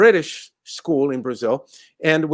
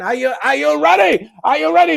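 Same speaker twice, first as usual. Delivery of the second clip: teasing build-up; 7 semitones higher, faster than usual. Real, not acted. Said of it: "teasing the listener".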